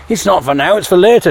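wife teasing Tom over the birthday cake; playful scolding wife. Retold or imitated. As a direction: wag a finger at him, half laughing.

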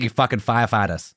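put-on movie-style Boston accent, dropped r's; mock a Boston line from a film. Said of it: "does anybody wanna do a wicked".

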